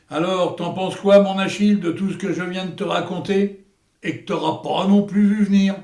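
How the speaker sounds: plus fort, qui insiste; le défier de répondre; provocateur. Acted. Hector provoque Achille. (Hector provoque Achille, fort et insistant)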